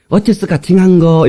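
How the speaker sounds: Jeolla dialect refrain; 전라도 사투리 추임새. Shown as a demonstration. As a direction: show the congregation a Jeolla-style response. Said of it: "이렇게 해야 됩니다". (전라도 말투로 추임새)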